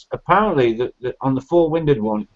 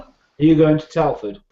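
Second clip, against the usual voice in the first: slower, clearer repeat; slower than usual. Real, not acted.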